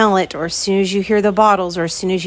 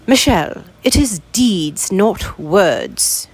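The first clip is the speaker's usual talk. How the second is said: put-on light English accent, slower on "it is deeds"; slower than usual. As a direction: quote dad in a gentle mock London English accent. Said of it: "Let me try again".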